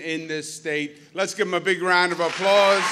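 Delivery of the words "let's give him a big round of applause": loud call to the crowd; rallying applause. Real, not acted. Speaker asks the crowd to applaud a guest, loud rallying call. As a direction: whip up a round of applause.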